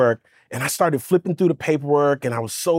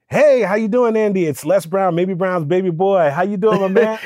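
booming upbeat motivational-speaker greeting, louder and higher; Les Brown impression; 4 semitones higher, 3 dB louder than usual. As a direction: hail him like a big-stage speaker, a notch louder and higher. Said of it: "he literally talks like that".

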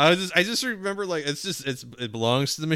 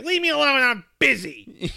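much higher, louder imitation of a brushing-off boss; dismissive boss; 12 semitones higher, 4 dB louder than usual. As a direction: snap it off like an annoyed boss. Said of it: "And he's just like".

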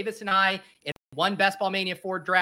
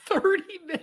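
high surprised echo, much higher; incredulous; 12 semitones higher, faster than usual. Real, not acted. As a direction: ask it in disbelief, pitched way up.

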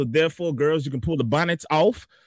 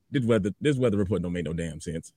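weatherman persona; 5 semitones lower than usual. Acted. The speaker doing weatherman persona.

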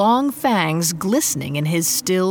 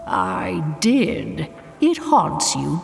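smug smile; slower than usual. Acted. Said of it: "could hear the smile in Tutu's voice".

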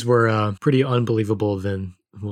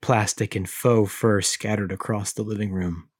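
measured, dramatic reading of a creepy tale; story narration. A narrator's reading. Host reads creepy Furby story aloud, dramatic narration. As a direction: read it like a campfire horror story.

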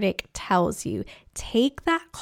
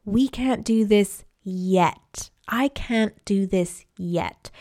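calm voice; slower than usual. Shown as a demonstration. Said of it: "in a very calm voice".

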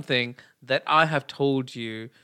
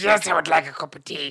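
mock posh voice; 3 semitones higher, 4 dB louder than usual. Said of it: "you're like".

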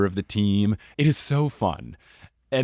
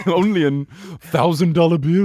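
posh voice; 8 semitones higher, 7 dB louder than usual. Pretend. Playing posh rich character.

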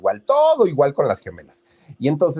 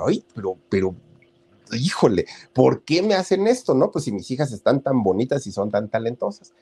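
whining in frustration; 2 semitones higher than usual. Retold or imitated. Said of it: "chillaba del coraje".

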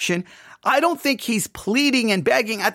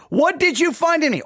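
higher-pitched rhetorical challenge; rhetorical question; 7 semitones higher than usual. Acted. God questioning the people, rhetorically. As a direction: ask it expecting no answer. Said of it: "he's asking kind of a rhetorical question".

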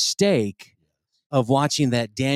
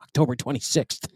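mock grave news read. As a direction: read it like dire breaking news. Reads news story gravely.

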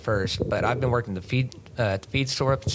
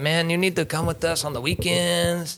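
put-on Hispanic accent; 6 semitones higher than usual. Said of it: "are we allowed to do Latin accents".

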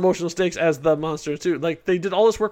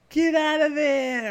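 mock bystander; 10 semitones higher, slower than usual. Mocking bystanders, high slow.

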